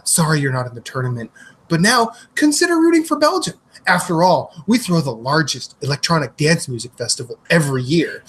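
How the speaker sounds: lightly imitated Belgian accent; a hint of a Belgian pitchman's accent. Belgian man addressing America in a commercial, light Belgian accent. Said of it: "this lovely Belgian man".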